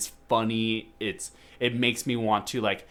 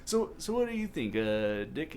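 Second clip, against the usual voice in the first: put-on much higher, childlike voice asking a question; little kid Bush; 6 semitones higher than usual. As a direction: play a squeaky little kid asking Dick. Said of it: "as a little kid".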